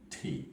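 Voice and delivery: ঠি with a strong puff of air; aspirated t. Shown as a demonstration. Teacher shows the aspirated t for students, breathy puff. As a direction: push air hard through ঠি. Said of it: "দেখেন আপনি যখন ঠি".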